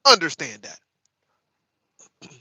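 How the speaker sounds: each word stretched slowly; slow, drawn-out emphasis. Shown as a demonstration. Streamer warning viewers, slow and deliberate. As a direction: drag it out so it sinks in.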